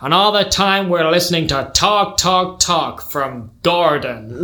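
indignant American father, last words drawn out; American accent. Acted. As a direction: rant as an exasperated American patriarch. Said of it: "gonna have to do an accent".

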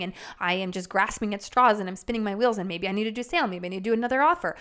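fast, rattled run of worries; frantic inner voice. Retold or imitated. Overwhelmed business owner, rushing and frantic. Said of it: "frantic energy of".

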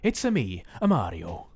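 put-on Italian Mario accent. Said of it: "It just sounds Italian".

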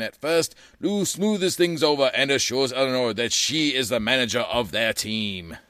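light radio announcer voice. Acted. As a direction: read it like old radio. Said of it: "I love talking in that radio voice".

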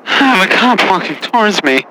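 panicked. Acted. Panicked caller, cop approaching.

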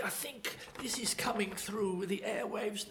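hushed, breathy whisper as the psychic; mock mystic whisper. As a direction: whisper it like a mind reader sensing waves. Mimicking Uri Geller's mind-reading act.

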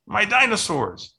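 put-on little boy yelling for his toys; yells. A narrator's reading. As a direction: wail for the lost dinosaurs. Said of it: "and Jackson yells".

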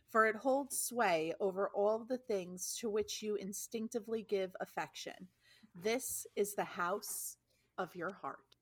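measured book-reading with lifted phrase openings; reading aloud. Acted. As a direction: read it out like a book passage. Reads a book passage aloud.

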